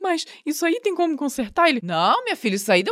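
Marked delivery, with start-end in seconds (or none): 0.0-1.7 high, tearful, sobbing, pleading voice. Retelling words to the tow truck driver, reenacting asking while crying. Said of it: "Aí eu chorando".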